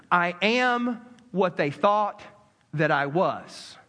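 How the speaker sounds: slow, deliberate admission, sinking at the end; owning up, confessing. Retold or imitated. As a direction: retell a confession, weighing each phrase with pauses. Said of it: "he owns it and he confesses it".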